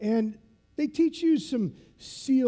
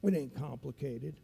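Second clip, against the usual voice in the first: put-on dole out the secret like an old military instructor, pitch often raised; instructor's voice; 4 semitones higher than usual. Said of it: "he talks like this".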